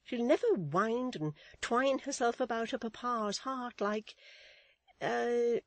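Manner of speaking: high, emphatic matron voice; deep confidence. A narrator's reading. Mrs Chick confides in Miss Tox about Florence, confiding. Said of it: "said Missus Chick in deep confidence".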